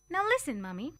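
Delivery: put-on high, urgent child pleading with her mother; a child scolding her mother, voice jumping high; young girl pushing her mother to listen; girl's voice. A narrator's reading. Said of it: "I was telling her".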